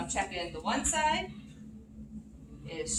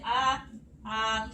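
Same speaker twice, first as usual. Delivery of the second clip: saying ahh; 4 dB louder than usual. Shown as a demonstration. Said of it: "I'm gonna have you say".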